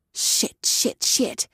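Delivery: panicked whispered curses. A narrator's reading. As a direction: breathe the swears in panic. Caught eavesdropping, panicking.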